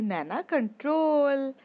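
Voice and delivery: loud, high, drawn-out shout to calm her friend. Acted. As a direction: yell her name slowly to rein her in. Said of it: "अनु चिल्लाकर बोलती है".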